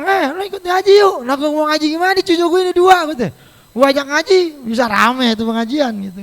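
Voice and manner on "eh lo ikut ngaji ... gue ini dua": higher, louder chatty neighbour voice; friend and grandmother chatting. Retold or imitated. Neighbour inviting grandma to Quran study, higher and louder. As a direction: pitch it up and chirp the invitation and excuse.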